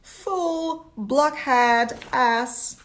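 loud, growling devil insults; shouting devils. A narrator's reading. Devils in hell shout insults at Fyodor, loud and jeering. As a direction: bark the insults like a pack of devils. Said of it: "devils flew up from all directions and shouted".

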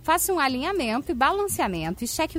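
upbeat radio ad read; hard sell ad. Acted. Reads sponsor ads on air.

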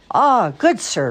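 high, projected stage line; clear, loud voice. A narrator's reading. Sister acting the princess in class, clear and loud. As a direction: declaim it like a child on stage. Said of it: "in a clear, loud voice".

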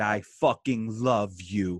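slow, earnest declaration; retold heartfelt affection. Wrestler retelling putting an arm round his defensive friend, heartfelt and slow. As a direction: let each word land slowly and sincerely. Moved friend after calming him down.

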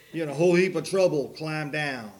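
a hint of a scolding officer; lightly voiced officer. Officer telling the trucker he's in trouble, mildly stern. Acting out the officer who stopped him.

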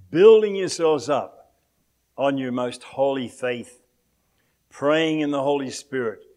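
emphatic, measured Bible recitation; scripture reading. Acted. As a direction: proclaim the verse phrase by phrase, with weighty pauses.

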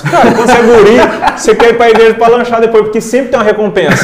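fala aguda e alta entre risadas; rindo alto. Real, not acted. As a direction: conte rindo, bem animado. Rindo ao contar da infância. (rindo ao lembrar do lanche da igreja)

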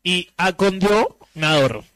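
very slow, drawn-out reading; reading the sign word, drawn out. Shown as a demonstration. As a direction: read "acondicionador" slowly off the sign. Reading the misspelled sign slowly.

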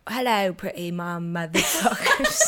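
slow, hammed-up British greeting; bad British accent, breaking into laughter. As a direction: open the show in a mock British voice. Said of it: "I didn't even open with a British accent".

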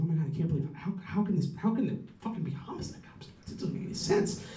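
hushed, reenacted freak-out. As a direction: stammer it in muted disbelief. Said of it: "I was just, like, freaking out".

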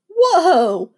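loud, high startled yelp; startled whoa. Acted. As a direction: jump back in surprise. Spit-up splat, startled cry.

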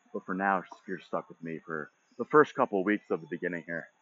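talking out of breath from walking; breathless after a walk. Real, not acted. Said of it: "I'm out of breath too".

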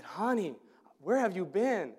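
badly faked accent of a sweet cleaning lady; Maria's accent. Cleaning lady greets a returning friend, in a poorly imitated accent. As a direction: attempt her accent lightly, with swooping pitch. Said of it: "I can't do the accent".

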